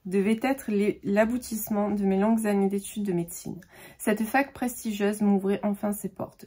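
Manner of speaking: measured, literary reading aloud; lightly dramatic book-blurb narration; back-cover reading. Acted. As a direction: read the blurb like a narrator, carefully phrased.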